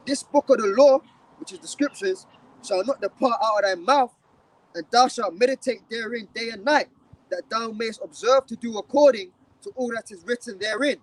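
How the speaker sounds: measured, declaiming Bible recitation, slowing at the end; scripture reading. Acted. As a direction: recite the verse like from the pulpit. Reads scripture aloud.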